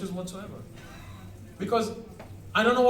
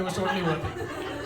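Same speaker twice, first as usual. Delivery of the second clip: laughing. Real, not acted. Laughing at own joke.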